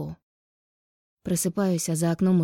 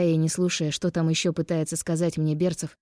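usual speaking voice

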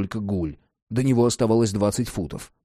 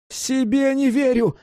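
high-pitched excited exclamation; 12 semitones higher than usual. A narrator's reading. Cat answers Jack while tinkering with the lantern, excited. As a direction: pipe up in thrilled disbelief, far above narration. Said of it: "возбуждённо отозвался кот".

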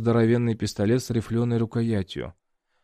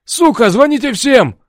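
high, loud panicked shout; redheaded guard yells to call everyone; yelling; 14 semitones higher, 12 dB louder than usual. A narrator's reading. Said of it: "кричал Рыжий".

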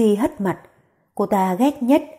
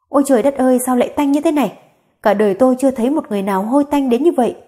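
a touch of mocking disgust, slightly higher; mocking contempt; 3 semitones higher, much faster than usual. Tú Di mocks the mother-in-law, mild mocking contempt. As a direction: sneer lightly at the stink. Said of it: "Giọng Tú Di bỡn cợt cùng khinh bỉ".

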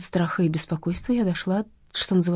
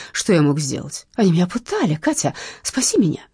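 whiny plea. Acted. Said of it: "снова заныло желе".

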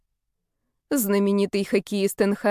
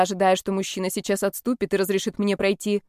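usual speaking voice

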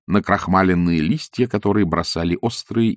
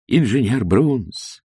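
pleasant voice; 3 semitones higher, much slower than usual. Acted. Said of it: "спросил приятным голосом".

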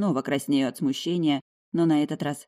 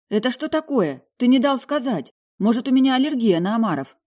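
higher, louder hurt outrage; offended indignation; 8 semitones higher, 5 dB louder than usual. Acted. Heroine scolding the duke for ordering for her, offended and indignant. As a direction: protest as if wronged. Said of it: "обиженно возмущаюсь".

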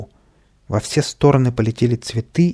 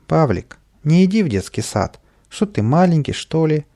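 higher, coaxing imp voice; a lightly raised mischievous sprite voice; tempting imp; 6 semitones higher than usual. A narrator's reading. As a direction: egg him on like a cheeky imp.

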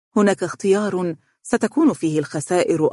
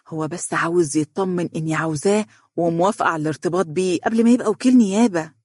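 sarcastic; 3 semitones higher than usual. Acted. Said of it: "ابتسمت بسخرية وقالت".

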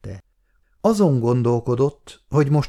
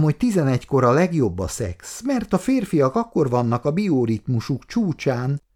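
higher, purring flirtatious coo; 5 semitones higher than usual. Acted. Kata flirting with Péter at his desk, cooing. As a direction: coo it to him like a sweet nothing. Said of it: "mondta búgó hangján".

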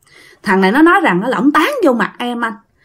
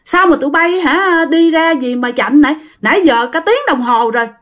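raised pitch, exasperated telling-off; scolding; 5 semitones higher than usual. Retold or imitated. Squad leader scolds soldiers for an hour's delay, exasperated. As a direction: scold the latecomers who kept him waiting. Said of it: "bạn mới chửi rằng".

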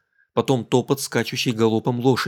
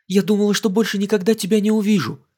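excited relief; 8 semitones higher, 3 dB louder than usual. Acted. Радостная встреча.

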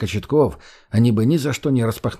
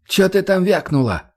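hoarse voice; 8 semitones higher than usual. Acted. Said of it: "сиплым голосом уточнила Светик".

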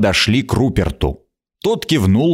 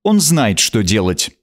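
brisk, higher queen's orders; sharp; 5 semitones higher than usual. Acted. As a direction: snap out instructions. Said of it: "она сказала резко".

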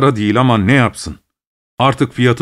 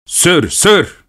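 urging; 5 semitones higher than usual. A narrator's reading. Passenger orders cabman to drive.

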